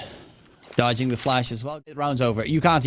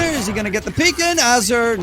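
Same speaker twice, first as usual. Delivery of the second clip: higher and fast, rising suspense; excited; 7 semitones higher, 5 dB louder than usual. Real, not acted. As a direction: call the peek on the edge of your seat. Tense peek called live.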